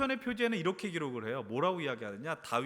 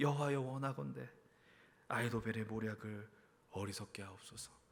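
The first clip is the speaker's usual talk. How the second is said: low, soft, sighing, prayerful voice. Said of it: "탄식과 가까운 기도".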